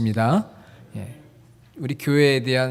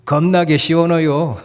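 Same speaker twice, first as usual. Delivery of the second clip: Jeolla dialect; 4 dB louder than usual. Shown as a demonstration. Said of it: "전라도 분들은 뭐라고 이야기를 할까요".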